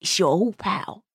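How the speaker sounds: low, soft Cockney impression; lightly done Cockney, slow; Cockney accent. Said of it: "tried to do Cockney".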